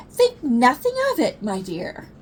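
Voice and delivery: high, lofty and overly gracious; grand mock politeness. Cub answering sibling at the bathroom door, lofty politeness. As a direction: play the fine gentleman.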